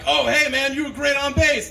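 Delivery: a fan gushing about his bass playing; mock fan gush.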